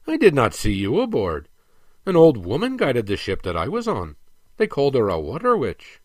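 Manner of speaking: lightly voiced dwarf, emphatic; a hint of an indignant prince; balking dwarf prince. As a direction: push back with mild disbelief.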